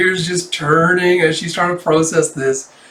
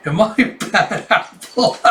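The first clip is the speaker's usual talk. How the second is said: lightly voiced little girl, higher and slow; worried child; 6 semitones higher, slower than usual. Child asking teacher about trouble, mock-worried high voice. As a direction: draw out a childlike, worried question.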